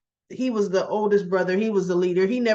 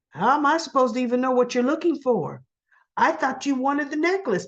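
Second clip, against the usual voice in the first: mock exasperated comeback, pitched up; indignant retort; 5 semitones higher than usual. Soap heroine answers his complaint about codes, mock indignant. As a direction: play her protesting the blame.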